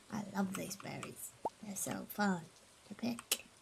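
soft unvoiced whisper; whispered delight. Real, not acted. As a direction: hush it like a secret. Whispers about picking berries.

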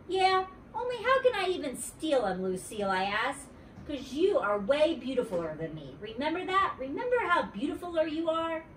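put-on bright little-girl sweetness, pitched high; wheedling kid voice up high; high girlish Junie B. voice. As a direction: coax her back as a friend. Junie B. flattering Lucille.

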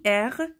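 ار as "air", open e, French r; pronunciation of ار. Shown as a demonstration. Teacher showing learners an ending, ار said "air" with French r. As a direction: end ار on a French throat r. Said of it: "با تلفظ ار".

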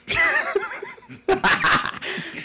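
put-on high cackle of an old man; cackling old man laugh. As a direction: cackle like a geezer.

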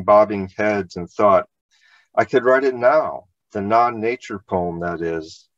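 measured literary reading aloud; essay reading. Acted. Poet reads an essay section at a reading, measured literary delivery. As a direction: read your essay to an audience, phrase by phrase.

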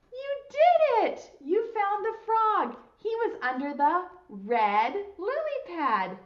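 high, loud, drawn-out celebration; excited cheer. Pretend. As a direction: cheer for children who won the game. Celebrates children finding the frog.

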